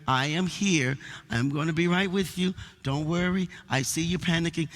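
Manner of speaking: understated, soothing shepherd's talk; gentle reassurance. Retold or imitated. Shepherd reassuring his panicking sheep, gentle. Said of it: "talk to her very gently and say".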